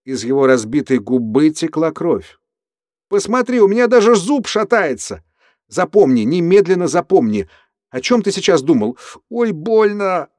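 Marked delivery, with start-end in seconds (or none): 3.1-10.3 high, loud and rattled by pain; pained and agitated. Acted. Andrew after his own punch, high pained agitation. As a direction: wail about the loose tooth. Andrew hurt, bleeding lip.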